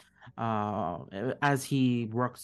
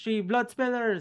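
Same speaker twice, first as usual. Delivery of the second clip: shrill, very high war shout; 11 semitones higher than usual. Narrating a scene where a character jumps down toward the listeners, shouting. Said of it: "he shouts".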